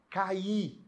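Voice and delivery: "cair" drawn out into a strong final I; stress on the I. Shown as a demonstration. Teacher asking students to notice the hiatus, stressed I in "cair". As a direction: let the I of "cair" ring as its own syllable. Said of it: "o I tem força".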